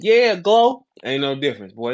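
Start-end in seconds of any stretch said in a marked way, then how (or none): 0.0-0.8 high, louder hype yelp; mock hype shout at Glow; girl rapper impression. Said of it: "you gonna sound just like them".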